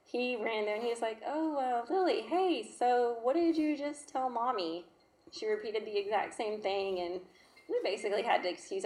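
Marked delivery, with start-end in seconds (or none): 1.2-4.8 coaxing dad. Retold or imitated. Husband coaxing daughter.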